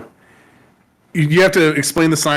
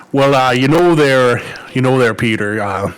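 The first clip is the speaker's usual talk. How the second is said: put-on Minnesota accent; 3 semitones lower than usual. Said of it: "say in a Minnesota accent".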